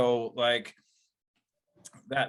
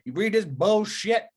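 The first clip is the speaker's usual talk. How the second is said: much higher, louder, slow indignant blast; angry outburst; 9 semitones higher, 6 dB louder than usual. Retold or imitated. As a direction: let the outrage burst out slowly. Quoting King's angry outburst.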